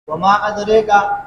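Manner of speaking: ادریکا with the long a leaned toward e, drawn out slowly; وما ادریکا, slow, with imala on the ادریکا vowel. Shown as a demonstration. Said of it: "یہ امالہ دونوں راویوں کے لیے ہے".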